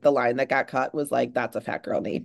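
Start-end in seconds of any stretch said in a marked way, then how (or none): 1.3-2.2 low, hushed aside; imitating a character's unspoken thought, softly; inner monologue. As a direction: murmur it as a private thought. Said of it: "that was his inner monologue".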